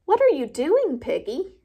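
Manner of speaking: high, baffled question; puzzled elephant. Acted. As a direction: ask it completely bewildered. Confused Gerald asks Piggy.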